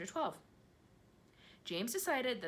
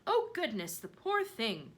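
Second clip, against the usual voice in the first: high, louder cry of pity; 6 semitones higher, 6 dB louder, slower than usual. A narrator's reading. Ladybird cries out in pity for James, high and loud. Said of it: "the ladybird cried".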